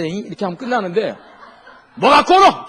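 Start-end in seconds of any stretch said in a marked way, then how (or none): 1.9-2.6 much higher, much louder laughing bark; mock Gyeongsang snap. A preacher mimics a Gyeongsang man silencing everyone, loud mock shout. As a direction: shout it like a fierce Busan man.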